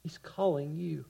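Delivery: hushed, loving call; tender invitation. Acted. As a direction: speak it softly to each listener.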